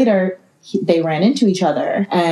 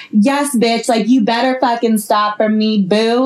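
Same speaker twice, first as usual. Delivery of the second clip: sassy and extra; 4 semitones higher than usual. Retold or imitated. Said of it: "just being so extra".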